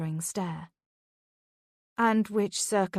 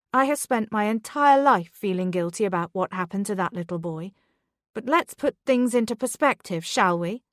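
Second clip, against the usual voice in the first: rising louder in defiance; mother defending herself at school, rising louder; growing louder; 2 semitones higher, 4 dB louder than usual. Acted. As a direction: push back harder and louder. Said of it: "Beth's voice grew louder".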